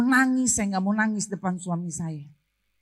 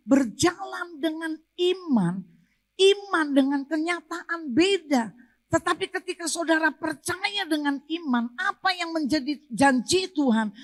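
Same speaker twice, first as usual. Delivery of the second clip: preaching exhortation; 5 semitones higher than usual. Real, not acted. Preacher urges congregation to hold God's promise, firm exhortation. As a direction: urge the congregation on with firm emphasis.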